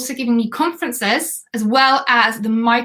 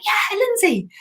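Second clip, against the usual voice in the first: chirpy yes; 9 semitones higher, slower than usual. Retold or imitated. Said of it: "and I'm like".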